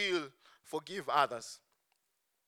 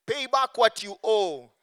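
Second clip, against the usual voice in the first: loud, higher, forceful demand; angry demand; 5 semitones higher, 10 dB louder than usual. Acted. Servant choking his fellow servant, angry loud demand. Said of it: "he demanded".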